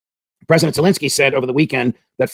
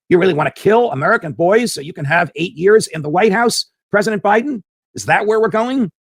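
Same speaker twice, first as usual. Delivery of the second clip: indignant questioning; 3 semitones higher than usual. Pretend. Host imagines grilling President Biden, rising indignation. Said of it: "I would like to question President Biden".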